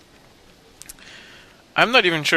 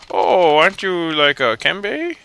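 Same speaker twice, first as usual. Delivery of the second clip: put-on old lady voice; 5 semitones higher, 4 dB louder, slower than usual. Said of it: "she's like".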